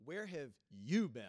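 a touch of sarcasm in the retort; mildly mocking, incredulous question to Jesus; sarcastic. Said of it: "full of sarcasm".

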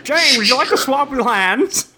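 put-on old-timey voice. Imitating Jake asking Jane to swap.

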